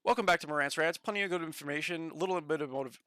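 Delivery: lightly voiced show-host intro; mock opener, cut short; Marantz impression. Another try at Marantz's intro for chat, light impression. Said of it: "I gotta work on my impression".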